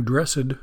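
"dressed" said as DRESS-ed; two-syllable dressed. Shown as a demonstration. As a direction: give "dressed" a separate -ed syllable, like churchy "blessed". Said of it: "Christians like to say".

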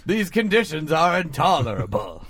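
mock Ken Burns letter narration; Civil War letter. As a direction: read it like a soldier's letter home. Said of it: "Burnsian style Civil War letter home".

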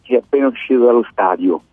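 hoarse, worn-out voice; hoarse from shouting at the stadium; voice giving out. Real, not acted. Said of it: "scusate la voce".

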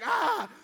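short wordless argument yell; imitated yell from dad; brief hammed-up "ah" of quarrelling; mock yell. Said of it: "yelling at each other".

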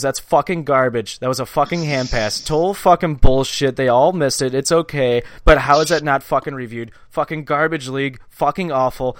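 loud, heated rant at the refs; retold angry rant. Dad fuming by text over the hand pass, loud angry rant. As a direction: vent like a fuming dad on a bad call. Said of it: "He goes".

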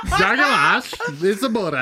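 Borat. Acted. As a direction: lightly imitate a Kazakh comedy character. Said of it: "What are you, Borat?".

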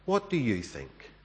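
soft, falling question; gently quoted question, dropped in volume; imitating her question. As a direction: quote her asking, softly. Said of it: "she stopped talking and asked".

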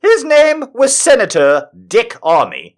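high, loud, insistent ranting; worked-up indignation, voice pushed high; exasperated rant. Acted. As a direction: hammer it home in comic outrage. Escalating rant over a politician's name.

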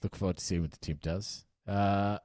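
put-on a half-hearted American journalist accent, pitched a bit up at the start; weird American accent. Podcast host as a journalist questioning the new owner, in a mild American accent. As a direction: play a press reporter with a loose, put-on American accent. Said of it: "talking in a sort of weird American accent".

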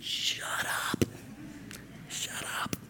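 hushed whisper, dropping to almost nothing. Acted. Preacher hushes the imagined gossiper, whispering. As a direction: whisper it like a private aside.

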